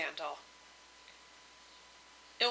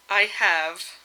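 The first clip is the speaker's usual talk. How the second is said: gloomy mutter. Acted. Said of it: "muttered her husband gloomily".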